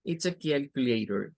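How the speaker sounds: It's a calculator said smoothly; demonstrating it's a calculator; English sentence. Shown as a demonstration. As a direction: calculator with a flapped t. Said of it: "Vamos a ponerla por acá".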